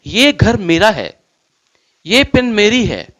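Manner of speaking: ये घर मेरा है and ये पेन मेरी है with ये stressed and falling at the start; emphatic ownership. Shown as a demonstration. Teacher demonstrating the emphatic form to students, stressing ये. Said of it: "बात को जोर देके बोलूंगा".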